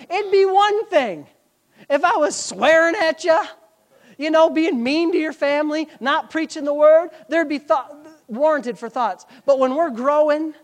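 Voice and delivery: forceful, building sermon cadence; impassioned preaching. Acted. Preacher urging church to guard the shepherd relationship, impassioned preaching. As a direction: press each phrase home to the congregation.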